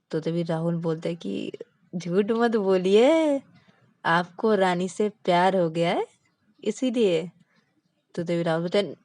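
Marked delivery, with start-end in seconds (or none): 1.9-7.3 slow, deliberate accusing; knowing tease. Acted. Rahul telling Vikas he's lying about love, slow and knowing. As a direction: call his bluff with a grin.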